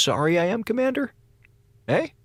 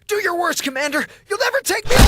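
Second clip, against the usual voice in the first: cornered officer yelling at commander, mock heroic shout; defiant shout; faster than usual. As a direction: hurl it at the commander like a doomed hero. Defiant last stand cry.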